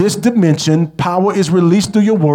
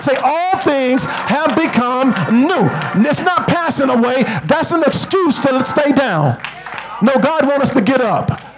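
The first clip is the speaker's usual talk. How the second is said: raised, higher pitched preaching that climbs toward shouts; fiery preaching; 6 semitones higher than usual. Acted. Preacher rousing the church to get up, in fiery raised preaching. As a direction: push the congregation to get up.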